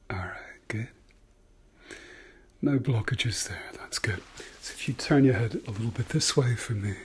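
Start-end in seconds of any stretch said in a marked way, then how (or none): 3.8-6.9 whispering. Acted. ASMR doctor exam roleplay.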